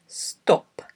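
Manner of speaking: careful, isolated word for dictation; slow dictation. Shown as a demonstration. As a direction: say each word on its own, long pauses between. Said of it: "read ten words aloud slowly".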